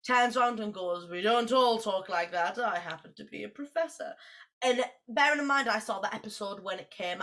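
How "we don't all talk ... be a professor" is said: lightly imitated dignified professor; a hint of a dignified talking cat; Patrick Stewart. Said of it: "voiced by Patrick Stewart".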